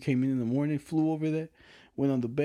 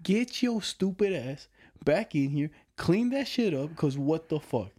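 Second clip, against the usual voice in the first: retold angry order; 4 semitones higher, slower than usual. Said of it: "I was like".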